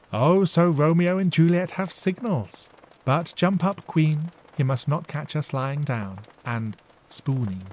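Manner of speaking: a hint of cheeky mischief; teasing younger sister. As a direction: tease her back. Dora teases back.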